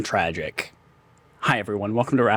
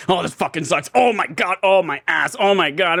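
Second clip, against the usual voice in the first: imitating a grumbling passenger; mildly hammed-up whining; mock complaining; 3 semitones higher than usual. Co-host mocks Joel grumbling in the trunk, mock complaint. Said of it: "he's nonstop complaining about how uncomfortable he is".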